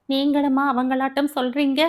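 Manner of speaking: hurt, quick rising question; wounded disbelief; pained. Acted. Wife asks husband in hurt disbelief, pained. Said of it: "வேதனையும்".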